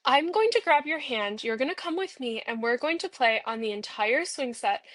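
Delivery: lightly voiced eager child; playful child. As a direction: play an excited kid pulling you along. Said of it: "a child that's just like".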